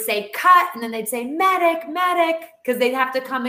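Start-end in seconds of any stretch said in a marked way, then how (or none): 0.3-0.7 loud, high director's call; imitating a director yelling cut. Director calling out on set. 1.2-2.5 loud, higher urgent call; mock urgent crew call; calling for a medic.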